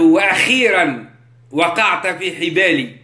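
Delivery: slow, drawn-out gloating; a lightly voiced devil gloating; devil's triumph. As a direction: savour the trap slowly.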